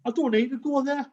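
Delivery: laughing loudly as he retells it; bursting into laughter at his own realisation. Real, not acted. Talking to Dave, laughing loudly at himself.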